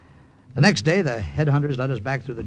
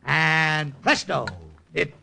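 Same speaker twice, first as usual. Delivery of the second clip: stage magician patter; 2 semitones higher than usual. Acted. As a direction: play the carnival magician working the crowd. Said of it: "And I went into my act".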